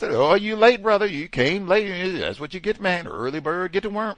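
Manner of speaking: high, loud, gloating coworker voice; teasing coworker. Retold or imitated. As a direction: rub it in like a smug colleague. Voicing coworkers teasing him.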